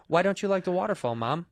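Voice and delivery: soft son asking his mother; lightly voiced, quiet role-play question; Bobby Lee. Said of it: "I'll be Bobby".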